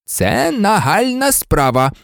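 measured refusal to give way; unyielding. A narrator's reading. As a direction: hold your ground deliberately. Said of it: "не поступався Дамблдор".

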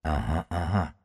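soft, hushed muttering to oneself; quiet, distant whisper. A narrator's reading. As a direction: murmur it under the breath. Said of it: "прошептал он".

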